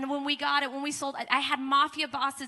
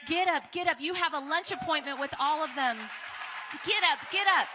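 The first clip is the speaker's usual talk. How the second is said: urgent wake-up call; 3 semitones higher, 3 dB louder than usual. Retold or imitated. Wife waking her, urgent.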